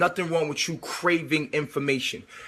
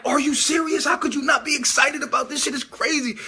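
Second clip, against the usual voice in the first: high, half-sung disbelief; can't believe she's not thrilled; pitched-up incredulous shout; incredulous excitement; 7 semitones higher than usual. Retold or imitated. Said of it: "and it's like".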